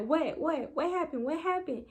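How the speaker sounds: dad demanding to know, rattled; dad's confused alarm. Retold or imitated. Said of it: "My dad was like".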